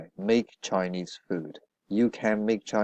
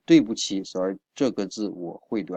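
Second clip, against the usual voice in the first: fast run-through; quick recap; faster than usual. Shown as a demonstration. Teacher quickly recapping the sentence at the end of the lesson, fast. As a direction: rattle it off as a reminder. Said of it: "quick recap of the example".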